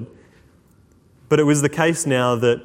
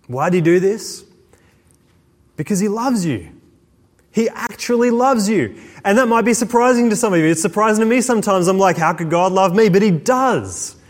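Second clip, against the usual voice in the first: passionate preaching; 6 semitones higher than usual. Acted. Preaching of God's love.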